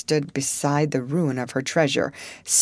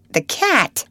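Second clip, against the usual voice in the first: incredulous; 8 semitones higher, 3 dB louder than usual. A narrator's reading. Incredulous repeat of Ethan.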